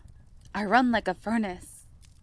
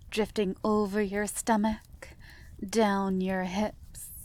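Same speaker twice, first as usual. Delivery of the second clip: ordinary talk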